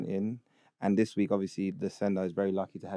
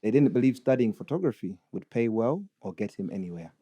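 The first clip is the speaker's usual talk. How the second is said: put-on Ugandan accent. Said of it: "read it in a Ugandan accent".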